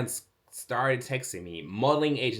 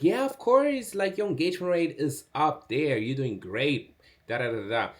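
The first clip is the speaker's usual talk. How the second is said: high, bright hype voice for the agent; mock excited agent; 4 semitones higher than usual. Agent hyping up a new model, excitedly. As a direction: gush like an eager agent.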